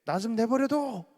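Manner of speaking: put-on high, loud whiny teenager voice; a teenager yelling at mom and dad; sulky teen. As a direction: shout it like a slammed door. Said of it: "엄마 아빠에게 이제".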